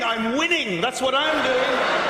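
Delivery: slow, laughing triumphant reply; cheeky winner laughing it off; laughing gleeful boast. Pretend. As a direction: gloat through a laugh. Gleeful reply while skipping.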